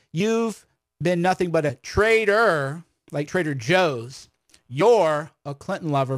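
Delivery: slow mocking read of the comment, with "traitor" drawn out. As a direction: sneer at the hater's wording. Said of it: "if your comment is".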